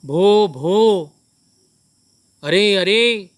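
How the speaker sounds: a loud, slow, startled "bho bho"; the robber chief recoils in alarm; alarmed exclamation. Acted. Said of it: "वो बोला, क्या बोला". (चोरों का सरदार चौंककर ज़ोर से बोला)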